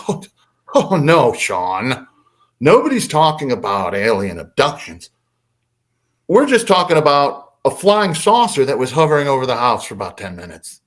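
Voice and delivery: mildly patronizing explanation; a little condescending. Retold or imitated. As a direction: talk down to a younger brother, lightly. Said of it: "a little condescendingly".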